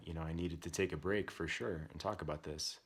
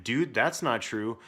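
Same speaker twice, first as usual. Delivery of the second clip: louder, higher, slow insistence; firm rebuttal; 5 semitones higher, 8 dB louder, slower than usual. Retold or imitated. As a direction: push back hard on the accusation. Parent retells own firm rebuttal.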